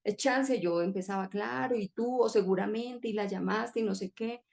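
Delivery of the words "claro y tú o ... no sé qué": mock nagging. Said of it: "yo seguía ahí martillando".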